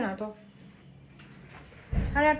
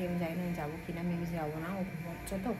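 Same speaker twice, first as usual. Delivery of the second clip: hushed, much softer voice to the camera; speaking softly; 5 semitones lower, 10 dB quieter than usual. Real, not acted. Vlogger to viewers while her son sleeps, speaking softly. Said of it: "আস্তে আস্তে কথা বলছি".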